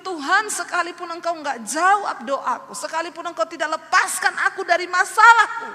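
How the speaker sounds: high, loud spoken declaration; impassioned spoken prayer. Retold or imitated. Woman vowing faith to God despite unanswered prayer, impassioned speech. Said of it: "Saya bilang".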